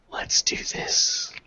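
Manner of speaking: breathy whispered resolve; whispering. Acted. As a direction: whisper it under your breath. Hushed battle resolve.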